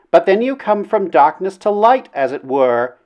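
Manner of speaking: high-voiced lady making her case; lofty, coaxing lady; persuasive princess. A narrator's reading. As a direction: argue sweetly in a high princess voice. Princess argues with him.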